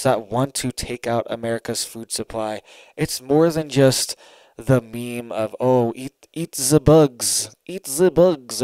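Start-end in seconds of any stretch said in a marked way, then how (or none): 5.6-8.6 attempted German accent. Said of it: "I cannot do this guy's accent".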